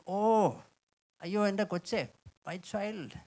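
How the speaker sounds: put-on soft, gentle call to a child; tender God. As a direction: coax a lost child. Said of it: "God speaking to us is saying".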